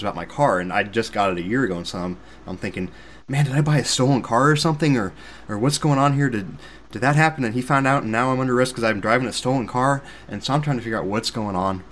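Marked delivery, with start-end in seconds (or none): 3.3-10.0 higher, louder imagined panic; mock-worried inner monologue; retold worried panic. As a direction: race through alarmed questions, retelling them. Retold panicked thoughts about stolen car.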